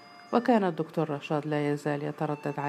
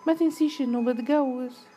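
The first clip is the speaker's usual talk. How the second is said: high, loud interjection; raised-voice objection; cutting in; 9 semitones higher, 5 dB louder than usual. A narrator's reading. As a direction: cut your friend off with a reminder. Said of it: "قطعتها فايزة".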